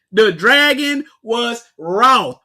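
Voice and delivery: "The dragon was wroth" shouted slowly, each word hit; slow loud reread. Shown as a demonstration. Preacher stops his reading and shouts the verse slowly. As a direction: slam out "wroth" slowly and loudly. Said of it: "Whoa, whoa, whoa".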